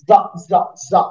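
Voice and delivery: জা buzzed like an English z; z sound. Shown as a demonstration. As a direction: buzz জা as a z. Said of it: "দেখাচ্ছি mouth position". (z এর মতো জা)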